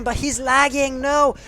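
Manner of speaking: high, loud sudden cry of alarm; alarmed call. Real, not acted. Caster reacting as the revive fails, alarmed shout. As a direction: shout it as the play falls apart. Teammate downed during revive.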